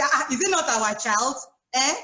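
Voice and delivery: a light hint of an indignant wife; mock nagging tone. Wife snapping at her husband, lightly mocked. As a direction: play the irritated wife, half-joking. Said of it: "you want to watch your tone of voice".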